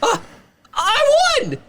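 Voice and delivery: very high delighted cry of victory; excited squeal. Acted. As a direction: squeal like you just won. Kara celebrates winning.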